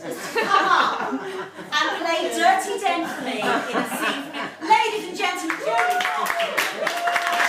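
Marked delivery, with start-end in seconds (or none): 4.7-7.4 long stretched high announcer cry; announcer call. Acted. Host introducing Jamie Foxx to the audience, drawn-out announcer call. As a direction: call him on like a boxing MC.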